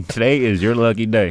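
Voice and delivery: a lightly drawled Texas "today is your lucky day"; Texas accent. Shown as a demonstration. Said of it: "you have to say it with an accent".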